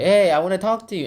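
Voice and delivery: Alice calling to the mouse, high and eager; eager girl voice. Retold or imitated. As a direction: call out like an eager little girl. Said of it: "she's all like".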